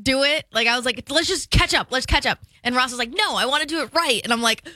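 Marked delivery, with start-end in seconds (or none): 1.1-2.4 urging. Retold or imitated. Retelling a squabble during painting. 3.2-4.2 insistent. Retold or imitated. Ross's bickering reply retold.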